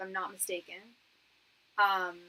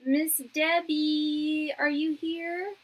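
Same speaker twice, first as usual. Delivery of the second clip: loud, high, drawn-out call; 7 semitones higher, 7 dB louder, much slower than usual. Real, not acted. Host calling the next donor in, loud drawn-out call. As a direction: sing out the name, stretched long.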